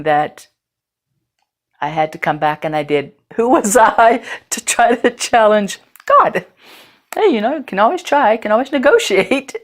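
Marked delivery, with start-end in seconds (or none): 3.3-9.6 laughing. Real, not acted. Laughing at challenging God.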